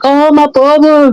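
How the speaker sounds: high, slow, sobbing mock lament; imitating crying. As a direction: wail it like a killer putting on grief. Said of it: "like, crying".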